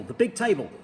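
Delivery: big table called out high and loud; shouted. A narrator's reading. Mugglewump shouting about the big table. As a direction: shout the order, leaning on big. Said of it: "shouted Mugglewump".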